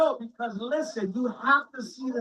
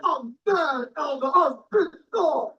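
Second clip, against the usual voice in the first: mock whine; slower than usual. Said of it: "brother hit me up on Facebook".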